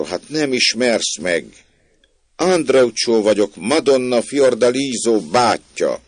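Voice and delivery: loud, high, slow call; calling up insistently. Acted. Locked-out man tells the maid who he is, calling up insistently. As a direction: project each word up to the window.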